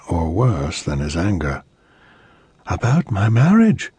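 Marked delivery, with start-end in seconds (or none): 2.7-3.9 resolute. Acted. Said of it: "she said resolutely".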